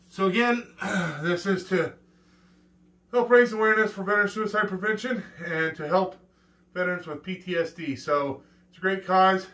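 puffing after a set of push-ups; out of breath. Real, not acted. Talking right after push-ups.

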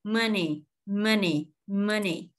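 money with the N running straight into ee; N linked into Y. Shown as a demonstration. Teacher models money for learners, syllables linked. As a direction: join the two syllables of money. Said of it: "nói qua âm y này luôn".

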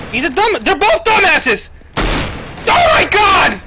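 drawn-out exasperated yell; frustrated shout. Real, not acted. Frustrated teammate yells at screen.

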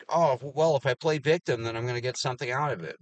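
high, loud mock whine of someone playing victim; mocking whiny victim. Mocking someone who plays victim, high whiny voice. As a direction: sneer it like a self-pitying coworker.

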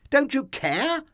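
high, loud, pleading reproach; desperate shriek. Acted. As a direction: cry out in frightened disbelief. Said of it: "they shrieked".

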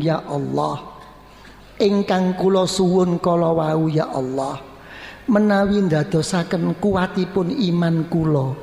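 humble prayer. Acted. Models humble sincere prayer.

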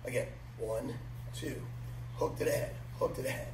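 crisp drill calls, punchy rhythm; boxing coach calling combos. Real, not acted. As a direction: call each strike on the beat.

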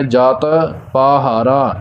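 soft ਜਤ, then long vowels in ਪਾਹਾਰਾ; soft pronunciation. Shown as a demonstration. Teacher showing learners the phrase, soft ਜਤ. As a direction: keep the t of ਜਤ loose before ਪਾਹਾਰਾ. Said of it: "ਪੋਲਾ ਉਚਾਰਨ ਕਰਨਾ ਹੈ".

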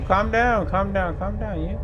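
calm the monster down with a tease; mock soothing. Real, not acted. Gamer mockingly telling a monster to calm down, teasing.

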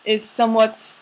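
slow, halting mock English accent; put-on English accent. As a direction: search for words in fake English accent. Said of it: "an English accent".

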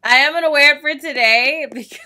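loud, high laughing exclamation; amazed laughter. Real, not acted. Gamer trying on a silly mask, loud amazed laughter. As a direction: crack up in amazement.

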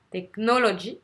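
"technology" with strong NO and faint ending; stress on second syllable. Shown as a demonstration. Teacher showing the barely heard ending, tech-NO-logy. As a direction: stress NO in "technology", let the last syllable fade. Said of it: "on l'entend presque pas".

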